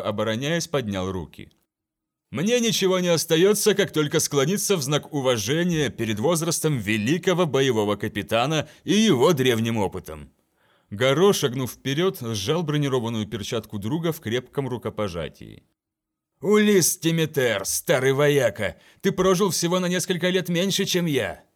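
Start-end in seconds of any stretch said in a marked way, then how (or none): 2.3-10.3 loud, teasing mock bow; hammed-up deference to an elder; mock-respectful captain. Timiter mock-bowing to elder. 16.4-21.4 hearty warrior greeting. Acted. Garo greeting old friend.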